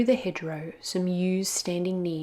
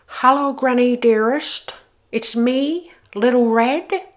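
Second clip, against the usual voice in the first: wolf faking Little Red; 5 semitones higher, 8 dB louder than usual. Acted.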